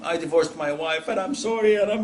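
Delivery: mock tearful confession, pitch climbing; imitated weeping. Regretful husband phoning the sheikh, mock weeping. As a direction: imitate a husband breaking into tears. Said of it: "uh, he starts weeping".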